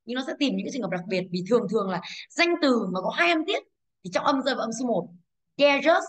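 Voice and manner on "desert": dangerous said "DE-zơt", high strong first syllable; stress on first syllable. Shown as a demonstration. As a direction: hit DE in dangerous, drop the ending. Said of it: "Dangerous âm một và dare".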